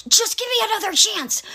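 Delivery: high mocking plea imitating a clingy date; whiny pleading guy. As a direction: beg in a pathetic mock voice. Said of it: "and he's all".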